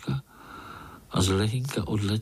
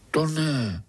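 alarmed; 5 semitones higher than usual. A narrator's reading. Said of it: "vylekal se Pája".

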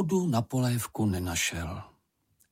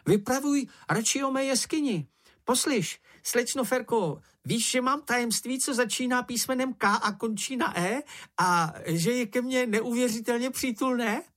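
high, squeaky, boastful little animal; Sniff's voice; 13 semitones higher than usual. A narrator's reading. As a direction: brag in a squeaky voice about a secret. Sniff's long speech. (vysoký pištivý hlásek, chlubivě)

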